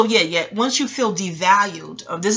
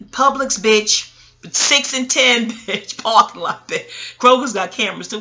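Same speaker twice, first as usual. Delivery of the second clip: mock fight challenge; 5 dB louder than usual.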